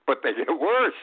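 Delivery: real chuckle spilling into the words; laughing while talking. Real, not acted. Host laughing at a crazy week, chuckling. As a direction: laugh through the line. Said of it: "I'm laughing as I'm saying this".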